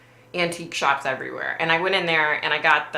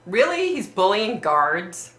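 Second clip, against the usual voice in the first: surprised; 4 semitones higher, 3 dB louder, slower than usual. Real, not acted. Disbelief at bullying guards news.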